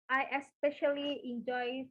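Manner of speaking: each word placed with care; teaching pace, unhurried; slow, careful model phrase. Shown as a demonstration. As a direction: spell it out slowly for learners. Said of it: "titik, titik".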